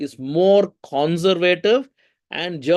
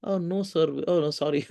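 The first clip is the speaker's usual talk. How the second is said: lightly voiced sheepish student, softer; imitated apologetic student; 4 dB quieter than usual. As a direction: mimic a corrected student backing down. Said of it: "I asked them".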